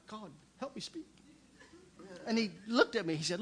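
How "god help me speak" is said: a much softer, hushed plea to God; whispered prayer. Retold or imitated. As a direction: pray it barely aloud. Desperate prayer during the altar call.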